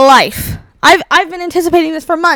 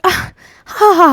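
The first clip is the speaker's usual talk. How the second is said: imitated laugh; 6 semitones higher than usual. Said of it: "She's laughing at me".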